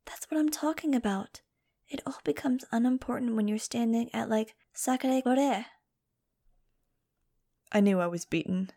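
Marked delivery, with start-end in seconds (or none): 0.0-5.7 high, whispery enthusiasm; excited. A narrator's reading. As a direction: gush in a high, airy whisper, slowing at the end. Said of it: "Angel said excitedly".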